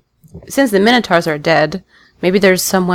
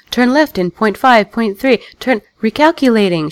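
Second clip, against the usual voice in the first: GPS voice; 4 semitones higher than usual. Retold or imitated. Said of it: "when she's like".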